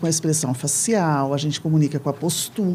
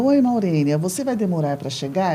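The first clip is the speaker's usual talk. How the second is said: imagined as a gentle, cute question; sweet, friendly message. Retold or imitated. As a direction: ask it sweetly, like a kind note to a friend. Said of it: "eu imagino eu falando toda fofa". (pergunta doce e carinhosa)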